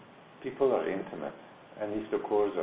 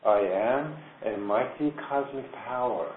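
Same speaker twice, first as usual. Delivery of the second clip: slow, louder declaration of power; solemn affirmation; 2 semitones higher, 3 dB louder than usual. Acted. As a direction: proclaim it like a mantra. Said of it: "she says".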